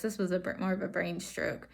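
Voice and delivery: muffled speech behind a mask; through a face mask. Real, not acted. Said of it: "why I'm wearing a mask".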